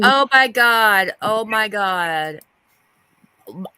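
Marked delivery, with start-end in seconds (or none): 0.0-2.4 shocked. Real, not acted. Shocked at what came up.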